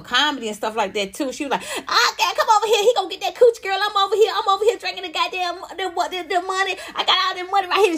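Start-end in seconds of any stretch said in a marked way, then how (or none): 1.6-8.0 high, rapid-fire ghetto brag; hammed-up raunchy persona, pitched way up; ghetto comedienne act. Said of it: "talk real ghetto about".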